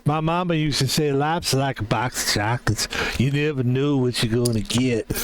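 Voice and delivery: casual, light Southern accent impression; light Southern movie-quote voice; lightly imitated Forrest Gump. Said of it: "He's kind of from the South".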